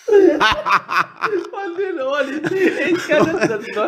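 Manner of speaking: high squealing laugh through words; giggling so hard words squeak out. Real, not acted. Mix-up over reading ears.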